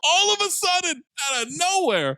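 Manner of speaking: high-pitched mock Southern accent; hammed-up Southern voice. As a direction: play along in an exaggerated Southern twang. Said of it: "Southern accent now".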